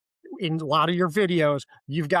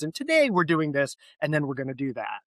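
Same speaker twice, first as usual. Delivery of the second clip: imitated news voice. Host showing the guest her inflections, imitated news voice. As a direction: mimic news inflections, going up then dropping off. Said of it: "perfect news voice with the inflections and the ups and the downs".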